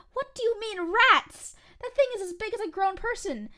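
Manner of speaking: high, loud, alarmed what-do-you-mean; freaked-out disbelief. Retold or imitated. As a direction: squawk it back in shocked disbelief. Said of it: "And I was like".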